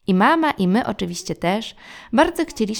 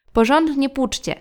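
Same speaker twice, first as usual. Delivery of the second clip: bossy instructions; 5 semitones higher, 4 dB louder than usual. Acted. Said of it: "komentowała mama".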